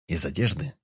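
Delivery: plain reading voice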